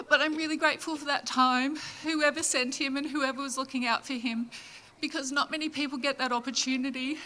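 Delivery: steadying through tears; choked up. Real, not acted. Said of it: "I actually did not want to get upset".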